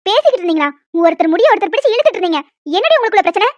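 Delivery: stern scolding. Acted. Teacher catches the hair-pulling.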